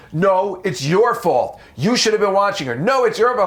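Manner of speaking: mock parents yelling. Grieving parents blaming each other over dinner, rising mock yell.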